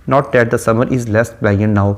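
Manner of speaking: measured, unhurried poetry reading; slow poem recitation. Shown as a demonstration. Teacher quoting the run-on line as an example, slow recitation. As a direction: read the verse line very slowly, savoring each word.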